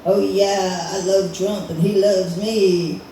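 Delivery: a hint of a fawning Trump fan, last words stretched; lightly voiced Trump lover. Comic voices a Trump supporter to the audience, lightly fawning. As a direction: lightly act out a devoted fan. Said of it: "guys who love Trump, and they'd be like".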